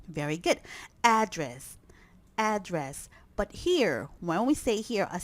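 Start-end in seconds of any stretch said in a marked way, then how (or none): 1.0-3.1 "Address" said AD-dress, weight up front; stress on first syllable. Shown as a demonstration. Teacher repeating the noun: "Address" stressed on AD. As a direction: lean on AD in "Address". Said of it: "The stress is here".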